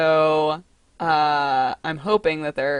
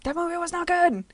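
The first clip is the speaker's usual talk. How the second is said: mocking chat voice; 10 semitones higher than usual. Mocking chat's reaction.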